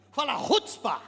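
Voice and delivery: slow, punched "rutzpah"; with chutzpah. Shown as a demonstration. Preacher coaxing a better repeat, bold "rutzpah". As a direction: draw out "rutzpah" boldly to lead a crowd. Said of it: "com rutzpah".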